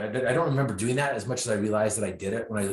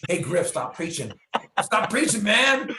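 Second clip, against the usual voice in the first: rising, much higher and louder mock complaint; mock heckler; 11 semitones higher, 5 dB louder, slower than usual. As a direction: whine at the preacher, climbing up high. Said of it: "people are like".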